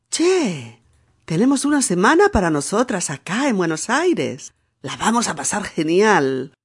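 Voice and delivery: acento porteño ligero, tono alto; porteña Noemí. Acted. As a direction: como una porteña animada. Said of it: "Noemí contesta". (Noemí habla a Carlota con acento porteño)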